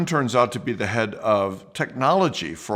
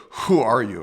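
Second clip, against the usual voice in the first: a touch louder, firm police question; police authority; 4 dB louder than usual. Retold or imitated. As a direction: press him with authority. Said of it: "they're asking with authority".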